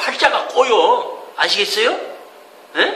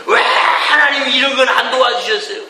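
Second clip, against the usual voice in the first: mock complaint to God; 4 semitones higher than usual. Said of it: "답답한 일 있으면".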